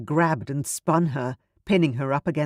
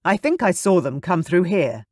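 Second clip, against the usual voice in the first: loud voice; 3 semitones higher, 5 dB louder than usual. Acted. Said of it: "a loud voice said".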